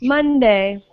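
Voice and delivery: "Monday" as MON-day; first-syllable stress. Shown as a demonstration. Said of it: "have the stress at the beginning".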